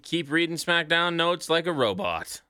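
a hint of a podcast host's sign-off; Scotty sign-off. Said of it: "does somebody wanna do a Scotty-ism?".

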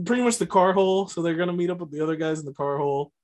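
car hole in a light Boston accent. Shown as a demonstration. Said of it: "say it in a Boston accent".

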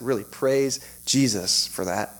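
slow, deliberate "praise Jesus"; mean it, each word drawn out; sincere emphasis. Real, not acted. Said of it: "you may think I'm being sarcastic".

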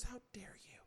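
breathy whispered how dare you; whispered mock outrage. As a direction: hiss it like a wounded soap star. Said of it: "every time it's like".

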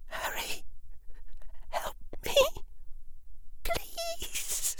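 breathless whispered plea; barely there, begging; faint plea. A narrator's reading. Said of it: "clear what she was saying".

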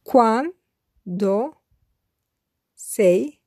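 normal talking voice

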